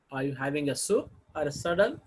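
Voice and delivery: "soup" rising before "or a salad"; choice question. Shown as a demonstration. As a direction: offer two options, lifting "soup". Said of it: "first tone group may have the rising tone".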